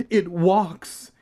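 high, loud startled shout. A narrator's reading. Uncle startled by a walking mummy, shout. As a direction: shout it in alarm. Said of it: "he shouted".

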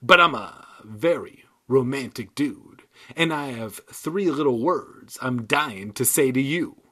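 harsh rasp, lightly voiced dummy; harsh raspy voice. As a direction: rasp it out, mock romantic. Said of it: "in a harsh, raspy voice".

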